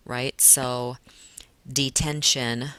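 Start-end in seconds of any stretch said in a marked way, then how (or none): 1.7-2.7 detention said slowly in three beats; syllable by syllable. Shown as a demonstration. Teacher showing the class its three syllables, slow and split. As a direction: stretch out detention so each syllable can be counted. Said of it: "comes up with three syllables".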